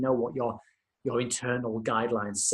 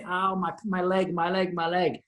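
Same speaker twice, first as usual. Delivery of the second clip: imitated pained cry; 4 semitones higher than usual. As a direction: act a hurt patient, without really shouting. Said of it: "they're screaming and shouting in pain".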